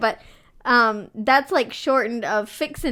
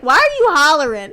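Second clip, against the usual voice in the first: retold holler; 3 semitones higher, 8 dB louder, faster than usual. Retold complaint about hollering.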